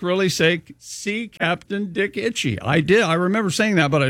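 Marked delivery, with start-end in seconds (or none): 0.8-2.6 slow, softer ad-spokesman voice; lightly voiced commercial read. Host reads the quoted line from a letter, commercial voice. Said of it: "in his best commercial voice saying".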